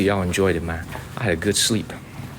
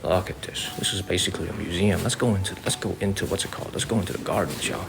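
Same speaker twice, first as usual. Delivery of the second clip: golf voice; 5 dB quieter than usual. Pretend. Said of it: "I don't wanna speak in my golf voice anymore".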